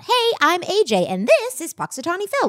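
imitating handler. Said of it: "It should have been the other way around".

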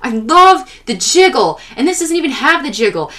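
mock adoration with punched high words; enthusiastic dad. Dad gushing about jiggle physics, enthusiastic. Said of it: "he was so enthusiastic about".

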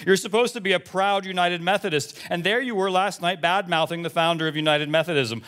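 lightly voiced indignant church lady; a hint of a huffy parishioner scolding the pastor; Shirley. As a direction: read the email with mild mock indignation. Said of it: "from Shirley M Pitts".

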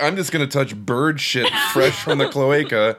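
laughing through a mock quote; giggling while imitating. Mocking character's line, laughing.

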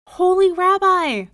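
high, loud cry for help; desperate cry. A narrator's reading. Poor man pleading to the rabbi, desperate high cry. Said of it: "he cried".

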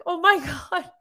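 high oh my God broken by a laugh; laughing disbelief. Retold or imitated. Reacting to Frank saying he'll cry, laughing. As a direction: crack up mid-phrase in disbelief. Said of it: "And I was just like".

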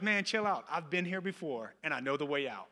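retold unruffled friend, winding down gently; cool, low-key reassurance; calm reassurance. Rescuer calms the panicking man.

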